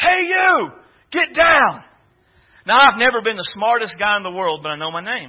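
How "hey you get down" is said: mock very slow, high, drawn-out, stretched-out yell. Retelling a guy shouting after him as he ran off: imitating someone yelling. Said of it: "And they're just yelling".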